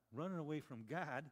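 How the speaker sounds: running away from God? asked with disbelief; a preacher questions the sailors' news in disbelief; incredulous question. Shown as a demonstration.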